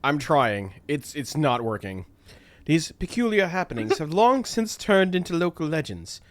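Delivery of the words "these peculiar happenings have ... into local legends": put-on a faltering Caribbean accent drifting off; half-hearted Caribbean accent telling ghost stories; attempted Caribbean accent. Idra tells of ship legends, failing Caribbean accent. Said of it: "I can't do a Caribbean accent".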